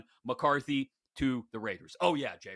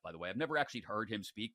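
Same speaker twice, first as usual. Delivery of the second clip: usual speaking voice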